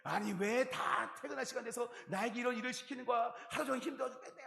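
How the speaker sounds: mock complaining young worker; grumbling.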